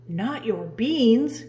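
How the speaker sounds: slow, loud outraged cry; hammed-up outrage. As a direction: drag it out in mock outrage. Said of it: "cried Scapito, outraged".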